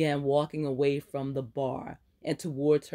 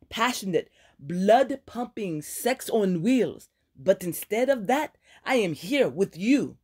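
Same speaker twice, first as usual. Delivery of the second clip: furious friend ranting, higher and louder; angry scolding friend; 5 semitones higher, 4 dB louder than usual. Acted. Ileana ranting at Aaron about her ruined dinner, angry. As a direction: let her rip into her reckless friend.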